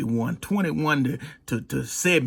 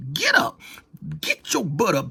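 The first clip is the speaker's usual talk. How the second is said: encouraging call. Retold or imitated. Voicing an encourager.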